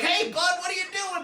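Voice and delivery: high-pitched mock driver yell; loud, hammed-up road heckle; retold angry yelling. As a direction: holler at the car in front. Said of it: "Start yelling at me".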